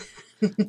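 acted cackling laugh; villain's cackle. Game master plays spellbound Maze Master, cackling. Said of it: "just starts cackling".

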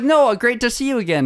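high-pitched imitated gushing hello; mock effusive greeting. Guest greeting him like an old friend, mock effusive.

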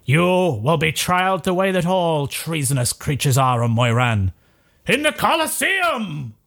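a king sentencing a spy before his crowd; King Lycus proclaiming. Acted. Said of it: "He goes".

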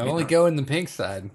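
creep voice. Acted. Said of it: "Gotta say that in that creep voice".

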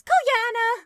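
high, delighted exclamation; Irina voice. Acted. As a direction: cry the name happily. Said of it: "Irina goes".

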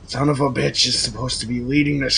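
mildly exasperated, beaten goblin; a touch of tearful rage, in bursts with pauses; raging disappointment. Acted. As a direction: let disappointed anger drag at the words. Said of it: "rage and disappointment on his face".

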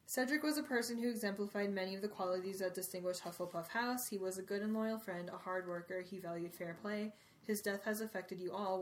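steady, solemn read of a speech; reading aloud. Acted. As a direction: read it like a headmaster's address. Reads Dumbledore's speech aloud.

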